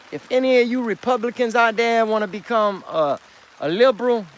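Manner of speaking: high, loud address to the audience; loud call-out. Real, not acted. Calling out to Republicans watching, a loud high announcement.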